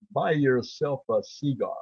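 slow John Wayne drawl on Buy yourself a cigar; imitating John Wayne the way he really said it; John Wayne impression. Shown as a demonstration. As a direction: stretch it out like the Duke. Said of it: "He said".

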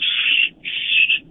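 whispered shush; hushing. Retold or imitated. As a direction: hush him so nobody hears. Hushing the loud fan at game.

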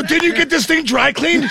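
high, slow, laughing disbelief; laughing question. Retold or imitated. Asking his wife about the jacket, laughing. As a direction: ask it while cracking up.

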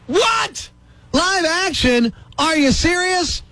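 mock outrage, hitting live; incredulous. Mock disbelief at the term.

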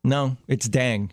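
slow DANG with an open a; insistent dang. Retold or imitated. Friend refusing correction on phone noise, slow insistent DANG. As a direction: hold firm on DANG, slowly. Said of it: "she's like".

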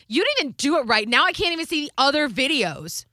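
high, fast bratty protest; whiny kid complaint. Retold or imitated. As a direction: mimic a child snapping back. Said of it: "she was like".

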